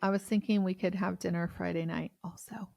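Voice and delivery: unvoiced whisper of private plans. Real, not acted. Cohost whispering dinner plans to the other, hushed. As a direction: whisper it like a secret between friends. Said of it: "whispered dinner plans".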